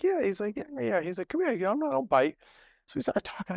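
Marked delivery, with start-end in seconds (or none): 0.0-2.4 high, friendly mock boxer voice; hammed-up Marvin waving him over, pitched up; Marvin Hagler impression.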